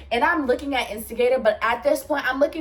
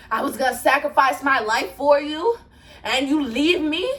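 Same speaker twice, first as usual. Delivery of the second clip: imitated indignant disbelief, pitched up; mock-offended, higher-pitched complaint; wounded accusation; 4 semitones higher, 3 dB louder than usual. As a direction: mimic him acting betrayed, rising at the end. Retold wounded accusation after running.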